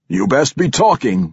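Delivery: gruff demand from the crowd. A narrator's reading. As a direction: press him to confess. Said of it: "one demanded".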